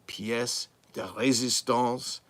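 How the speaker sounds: put-on emulated accent, drawn out; Darth Silicone's accent. Vlogger showing off a prized find, in an imitated accent. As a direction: put on his accent for the fancy phrase. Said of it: "as Darth Silicone or J S Starbuck would say".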